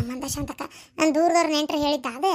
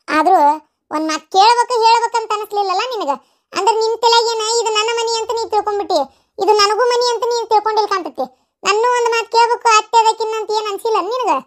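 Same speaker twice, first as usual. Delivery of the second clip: indignant scolding; 3 semitones higher, 6 dB louder than usual. Acted. Mother-in-law scolds daughter-in-law.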